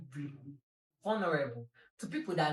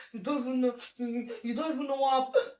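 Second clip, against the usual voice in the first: exasperated retort; 8 semitones higher, 4 dB louder than usual. Retold or imitated. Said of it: "I'm like".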